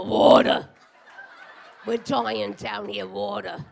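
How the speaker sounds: dried-out crab rasping for water; parched crabs. Pretend. Crabs begging her for water, a hammed-up rasping croak. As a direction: croak it like dying of thirst. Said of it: "they would go".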